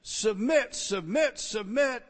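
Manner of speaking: Submit shouted high three times; emphatic repetition. Shown as a demonstration. Preacher driving home the key word to the congregation, loud. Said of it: "It, it is the emphatic point".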